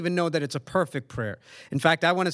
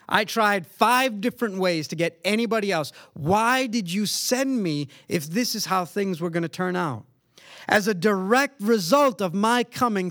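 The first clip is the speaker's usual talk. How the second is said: mildly raised, protesting voice; aggrieved complaint; 3 semitones higher than usual. Retold or imitated. Preacher voicing Moses' complaint to God, aggrieved protest. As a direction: argue the grievance, punching key words.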